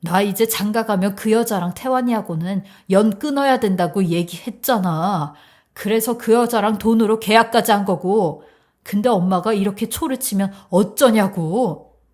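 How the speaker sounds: frustrated, insistent complaint; exasperated reproach. Acted. Son scolds mother for breaking their arrangement, exasperated. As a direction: blame her for spoiling the plan.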